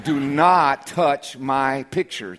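slow, deliberate, every word spaced out; stern warning. Retold or imitated. Pastor retelling his warning to his wife, slow and stern. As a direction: lay down the law to your wife, slowly.

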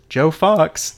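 "Fox" leaned on in mild disbelief; a touch of dawning recognition on "Joe Fox"; stunned repeat. Retold or imitated. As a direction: echo the name as it sinks in. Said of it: "And Frank says".

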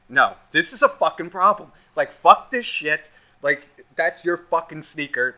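angry inner voice. Retold or imitated. Inner voice objects to calming down.

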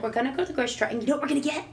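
high, gushing excitement with a gasp; excited mom. Retold or imitated. Mom hyping up the store trip for her son, gasping excitedly. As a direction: sell the grocery trip like a treat.

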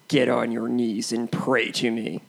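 a touch of a menacing villain, low; podcast quote war, cohost opens with a lightly villainous line. Acted. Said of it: "a good old-fashioned quote war".

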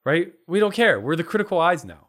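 high, emphatic mock declaration; sarcastic. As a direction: proclaim it loudly with tongue in cheek. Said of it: "sarcastic about this".

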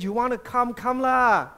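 touchy Singaporean English, pushing the last words; Singaporean accent. Acted. Pastor voicing Jesus as a Singaporean, touchy Singlish accent. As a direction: scold lightly in a Singaporean accent. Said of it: "are from Singapore".

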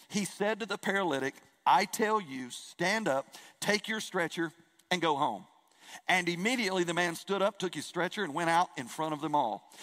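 measured, solemn reading of the gospel; scripture reading. Acted. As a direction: read the passage to the congregation with care. Reads Mark 2 aloud.

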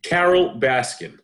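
a light Joe Exotic voice, slow and drawn out; half-done Joe Exotic naming his rival; Joe Exotic impression. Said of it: "I sounded like Joe Exotic".

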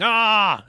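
high, half-loud action-movie yell; mock yell. Co-host quoting an eager cop's action-film question, mock yell. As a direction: imitate yelling while firing at the sky. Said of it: "unload a clip while yelling".

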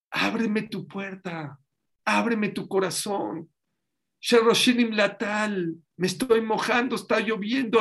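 lenta y suave súplica; súplica tierna. Acted. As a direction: ruega despacio a la amada. Dios suplica al pueblo. (Dios ruega a su amada, lento y tierno)

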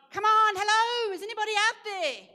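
high, loud call for help from a ditch; pretend shout for help. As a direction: yell for rescue, half laughing. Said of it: "shout with all your might".

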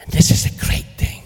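hushed, intimate whisper; sudden whisper. Real, not acted. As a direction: drop to a secret whisper. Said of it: "sudden whisper".

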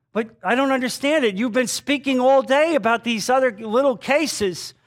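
high-pitched, emphatic disbelief; incredulous judge. Retold or imitated. Judge pressing the silent man in court, incredulous.

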